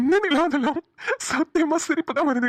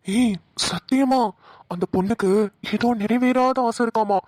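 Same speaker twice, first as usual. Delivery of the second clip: husky spooky voice. Acted. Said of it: "நீ பேசுற husky voice தாயா பயமா இருக்கு".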